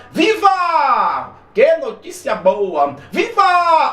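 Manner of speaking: high happy cheer; joyful cheer. Shown as a demonstration. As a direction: cheer at good news. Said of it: "emoções". (viva alegre e agudo)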